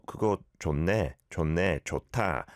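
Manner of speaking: plain Seoul intonation, without the dialect swoop; Seoul-style Korean, short modest endings; Seoul speak. Shown as a demonstration. Host contrasting with Busan dialect, even Seoul intonation. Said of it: "even if you're speaking in Seoul speak".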